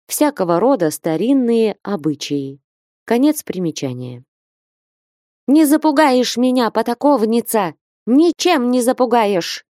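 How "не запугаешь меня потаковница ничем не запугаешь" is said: shouting. A narrator's reading. Jealous Ustinya to Flenushka, shouting defiance. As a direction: yell it back in open defiance. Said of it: "кричала Устинья".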